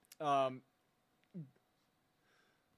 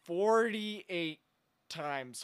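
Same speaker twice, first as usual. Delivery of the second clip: incredulous; 4 semitones higher, 5 dB louder, much slower than usual. Acted. Host incredulous repeating number.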